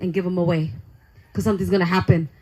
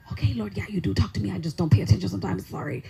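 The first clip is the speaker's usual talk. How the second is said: softer, a little quicker, sinking to a tiny sorry; sheepish apology; 3 semitones lower, 6 dB quieter, faster than usual. Retold or imitated. She sheepishly admits to God she wasn't listening, soft and small. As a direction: own up meekly.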